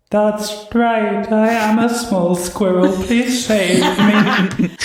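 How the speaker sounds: high squeaky little-squirrel plea, laughing through it; a hag faking a tiny squirrel begging for help; fake squirrel crying. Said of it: "you hear the crying go".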